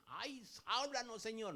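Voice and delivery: high, drawn-out mock plea; mock pleading. Preacher mimics people begging the Lord to speak, mock pleading. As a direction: imitate an earnest appeal, dragging it out.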